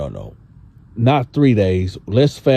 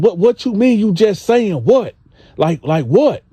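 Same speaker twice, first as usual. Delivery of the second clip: Gene voiced; 10 semitones higher than usual. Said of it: "he like".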